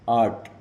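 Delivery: आर्ट said as "aat", with no r sound; silent r demo. Shown as a demonstration. Teacher showing students the silent r in आर्ट. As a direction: model आर्ट with a long a and no r. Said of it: "आर्ट में भी र जो है वो silent है".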